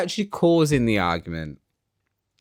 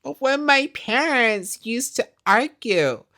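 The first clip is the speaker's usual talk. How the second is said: imitated tearful voice, high and slow; Tiffany; 10 semitones higher, slower than usual. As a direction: put on a high, weepy lament. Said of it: "'Cause Tiffany's in tears".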